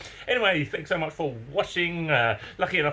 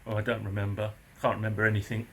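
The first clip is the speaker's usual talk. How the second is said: mumbling neighbour; 3 semitones lower, 3 dB quieter than usual. Retold or imitated.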